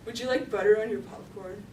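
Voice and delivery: lightly imitated unchanging monotone, slightly low; hint of an impassive counter worker; deadpan server. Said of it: "His tone never changes".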